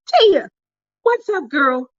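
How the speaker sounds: high, bright call of her name; mock excited greeting from a friend. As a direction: squeal the name like spotting a friend.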